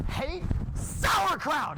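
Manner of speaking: "sauerkraut" stretched out slowly on a high pitch; emphatic outburst. Acted. Rambler finally reaching his point, emphatic outburst on "sauerkraut". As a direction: build to a drawn-out, high blast on "sauerkraut". Climactic confession of hatred.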